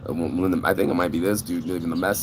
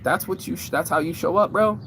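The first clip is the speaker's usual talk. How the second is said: a lightly voiced old man, pitched higher, scolding; mock old man griping at a late kid; grumpy old man; 9 semitones higher than usual. Complaining about kids showing up late, as a mild mock old man. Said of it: "now I sound like an old man going like".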